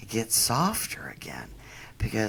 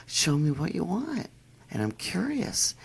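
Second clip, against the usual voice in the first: higher, curious coaxing; coaxing the dog; 6 semitones higher than usual. Retold or imitated. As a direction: lure the dog to show you.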